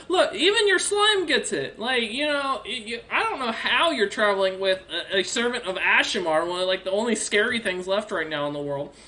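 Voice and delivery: high, laughing taunt; mocking dragon. Dragon taunting Durmar about his bodyguards, high and laughing. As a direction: tease him for his lucky companions. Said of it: "She goes".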